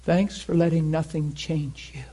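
lightly voiced God, almost a whisper; God's hushed voice. God quietly tells Dan his words, in a soft whisper. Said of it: "He said".

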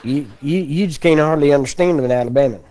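lightly exaggerated Alabama accent. Shown as a demonstration. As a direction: stretch the vowels like an Alabama local. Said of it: "they have an accent down there".

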